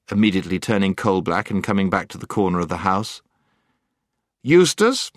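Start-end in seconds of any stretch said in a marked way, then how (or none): 4.4-5.1 high, raised call of a name; pitched up, summoning; prince calling out. A narrator's reading. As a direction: call to a companion as a commanding prince. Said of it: "he said".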